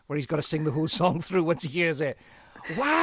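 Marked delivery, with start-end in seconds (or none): 2.8-3.0 high amazed gasp of wow; surprised wow. Real, not acted. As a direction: sound genuinely amazed. Surprised reaction to singing.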